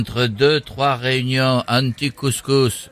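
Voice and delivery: measured mock politician with southern French accent; deadpan political impression; Eric Ciotti. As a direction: deliver it like a solemn party statement. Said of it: "on a Eric Ciotti avec nous".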